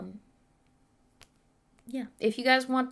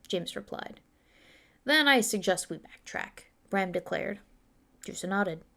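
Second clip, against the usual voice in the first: steady storytelling read; story narration; 2 semitones lower than usual. Acted. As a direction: read the chapter like an audiobook. Reads her fantasy novel aloud.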